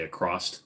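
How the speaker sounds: "across" said as "acrosst". Shown as a demonstration. Streamer recalling early videos, "across" with added T. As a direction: end "across" on an extra T. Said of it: "there's no T in that word".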